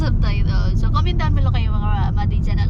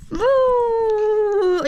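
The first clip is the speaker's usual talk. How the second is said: high playful boo; spring a peekaboo boo; 10 semitones higher than usual. Real, not acted. Playing peekaboo with baby.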